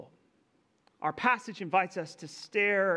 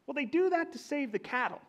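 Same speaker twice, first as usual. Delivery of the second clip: higher, plain and simple grandmother; grandma shrugging off a child's question, matter-of-fact; 8 semitones higher than usual. Retold or imitated. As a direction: answer it like a country grandma, no fuss. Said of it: "simple and to the point, matter of fact way".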